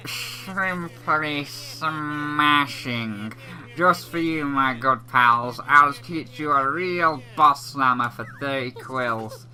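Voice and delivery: lightly voiced salesman with drawn-out words; a hint of a wheedling merchant; smooth-talking salesman. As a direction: make the sales pitch, stretching the opening words. Voices Trouser making a sale.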